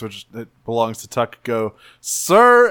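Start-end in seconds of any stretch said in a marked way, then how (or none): 2.0-2.7 sudden high, loud squeal; high mock shriek; shrill tiny voice. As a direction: imitate a little kid's piercing shout. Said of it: "hears a shrill, tiny voice".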